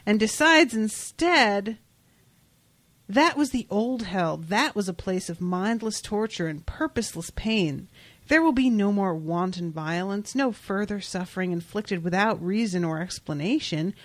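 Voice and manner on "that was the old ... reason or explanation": angel's proclamation, read in measured phrases; dramatic reading. Acted. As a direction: read it as a solemn, formal pronouncement. Reads the angel's speech aloud.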